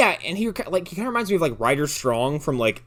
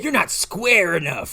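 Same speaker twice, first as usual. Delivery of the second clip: mock stiff caddie; 7 semitones higher, slower than usual.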